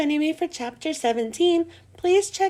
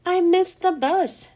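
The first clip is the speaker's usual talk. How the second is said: higher, slow sulky grumble; grumbling; 6 semitones higher than usual. A narrator's reading. Jenny grumbling to her mother about missing the bus, slow and sulky. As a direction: grumble it out like a put-upon kid. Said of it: "Jenny grumbled".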